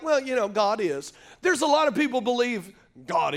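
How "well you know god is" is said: "God is" tossed off, offhand and lukewarm; casual shrug. Shown as a demonstration. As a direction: say it like it barely matters. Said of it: "It's not said like".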